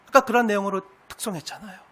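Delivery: ordinary talk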